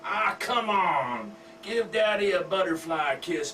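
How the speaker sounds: lightly voiced father soothing his girl; father coaxing his daughter from the recliner, mildly hammed; doting redneck dad.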